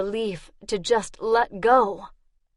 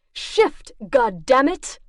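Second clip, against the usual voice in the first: sharp cry, then a curse; desperate curse from below; urgent outburst; 4 semitones higher, 3 dB louder, slower than usual. Acted. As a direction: snap at her to move.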